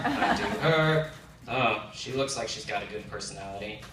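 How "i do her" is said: slow, drawn-out I do her; slower, laughing take of I do her; slow deliberate swipe. Retold or imitated. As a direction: savour each word like a lazy swipe. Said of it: "Or for men".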